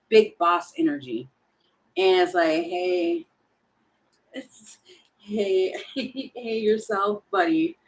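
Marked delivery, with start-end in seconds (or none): 2.6-7.8 whispered slick come-on; breathy sweet-talker, slow at the end. Retold or imitated. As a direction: whisper it like a sly charmer sliding in. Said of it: "somebody's trying to come in all slick".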